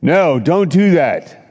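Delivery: high, frantic pleading no's; a hammed-up panicky devil. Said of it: "and the devil would say".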